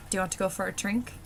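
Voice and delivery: Irish accent, quick, dental d on "drink"; quick Irish-accented question ending on "drink". Shown as a demonstration. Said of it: "and the dental D".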